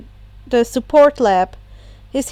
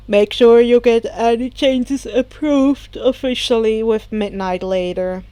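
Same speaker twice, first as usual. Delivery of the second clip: tired; 3 semitones lower than usual. Acted. Tired teacher Aizawa.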